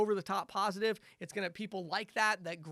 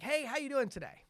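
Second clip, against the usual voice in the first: slightly over positive; 5 semitones higher than usual. Shown as a demonstration. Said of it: "slightly over positive, uh, attitude".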